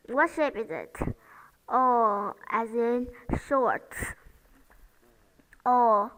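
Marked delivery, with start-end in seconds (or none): 1.7-2.3 O with lips rounded. Shown as a demonstration. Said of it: "Notice the shape of my mouth". 5.6-6.1 whispered O. Shown as a demonstration. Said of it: "The mouth and the lips are rounded".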